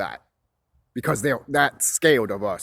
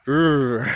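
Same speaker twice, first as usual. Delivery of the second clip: frustrated ugh; 4 dB louder than usual. Retold or imitated. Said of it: "excuse me if I'm like".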